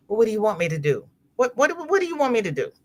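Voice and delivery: fast, flustered mock protest; retold exasperated protest. Daughter protesting to mother about her face, fast mock exasperation. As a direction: rattle it off, rising in mock exasperation.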